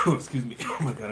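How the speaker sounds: coughing, choking on tea; choking on a drink. Real, not acted. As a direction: splutter through a coughing fit. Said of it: "I'm choking tea".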